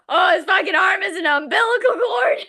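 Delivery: half-laughing shocked exclaim; incredulous outburst. Real, not acted. Telling a friend the book's twist, disbelieving outburst.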